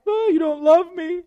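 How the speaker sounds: high, pouty, nagging wife voice; whiny pleading wife. Retold or imitated. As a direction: wheedle like a sulking bride. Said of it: "She starts crying... and just saying".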